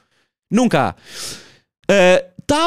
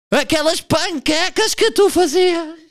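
slow, higher, sentimental tribute; mock emotional singer; 8 semitones higher, slower than usual. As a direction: ham up a tearful singer's homage. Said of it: "fazer homenagens de freestyle". (cantor emotivo imitado, lento)

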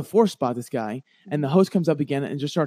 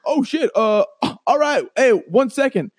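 caught off guard; 9 semitones higher, 5 dB louder than usual. Retold or imitated. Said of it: "He's like".

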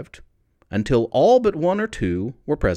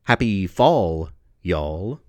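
poem title; 5 semitones lower, slower than usual. Acted. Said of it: "It's called".

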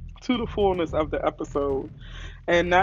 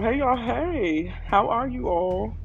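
excited greeting; 8 semitones higher, much slower than usual. Real, not acted. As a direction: greet them with a burst of energy. Greeting podcast listeners again.

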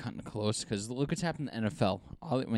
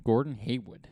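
Boston accent. Shown as a demonstration. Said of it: "I'm trying to say it like a Bostonian".

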